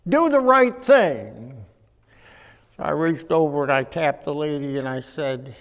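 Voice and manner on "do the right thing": slow stern command. Retold or imitated. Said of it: "and said".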